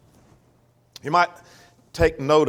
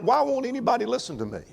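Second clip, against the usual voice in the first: high, fast plea of a woman calling to the crowd; pleading Wisdom; 9 semitones higher, faster than usual. Acted. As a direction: cry out like a woman nobody hears. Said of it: "she's crying out".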